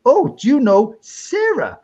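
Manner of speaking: high, slow questioning voice; eager questioner. Retold or imitated. Imitates woman's eager question.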